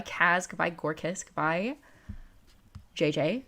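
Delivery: ordinary delivery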